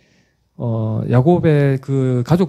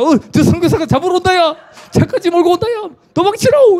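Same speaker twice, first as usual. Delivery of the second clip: very high, loud alarm call; panicked shout; 4 dB louder than usual. Retold or imitated. Defector yells that the missionary is chasing in a car, very high. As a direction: shout a warning to run.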